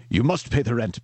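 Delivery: a hint of a stage villain; lightly voiced melodrama villain; sneering panto villain. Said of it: "the old gag".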